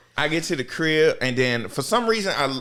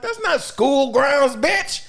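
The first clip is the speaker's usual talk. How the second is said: high, slow, indignant retort; retold defiant comeback; 13 semitones higher, 4 dB louder, much slower than usual. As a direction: throw it back at them, pitched up. Retold defiance at the vice principal.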